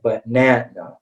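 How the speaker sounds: banana with the middle "na" stressed, first syllable reduced to "buh". Shown as a demonstration. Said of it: "that's the stressed syllable in the word".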